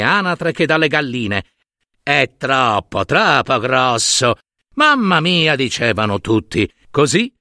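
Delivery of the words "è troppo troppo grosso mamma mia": mocking chorus. All the birds mock the duckling.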